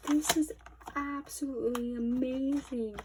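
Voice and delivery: loud, high delighted gush; gush, thrilled; excited gush. Real, not acted. Fan gushing over the standee, loud and high.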